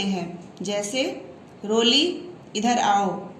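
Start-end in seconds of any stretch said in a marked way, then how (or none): 1.6-3.3 rising call on "रोली", brief pause, then "इधर आओ"; संबोधन के बाद विराम. Shown as a demonstration. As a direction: call "रोली" and break before a falling "इधर आओ". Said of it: "रोली के बाद हमने कॉमा लगाया है". ("रोली" पुकारकर रुकें, फिर "इधर आओ")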